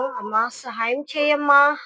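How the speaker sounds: a slow, mildly pitiful beggar's plea; slow, understated pleading. Acted. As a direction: plead gently, like a humble beggar. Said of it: "చాలా దీనత్వంతో".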